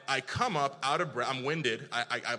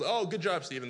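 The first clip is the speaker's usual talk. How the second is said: higher, louder mock congratulations; mock praise; 6 semitones higher, 4 dB louder than usual. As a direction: cheer him on insincerely. Imagined onlookers cheering a hurt swimmer.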